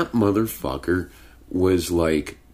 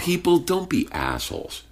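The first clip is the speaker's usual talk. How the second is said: pitched-up plea at dog owners; exasperated plea; 12 semitones higher than usual. Real, not acted. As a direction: beg people to do better, exasperated.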